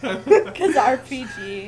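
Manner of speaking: laughing. Real, not acted. Echoing the joke while laughing.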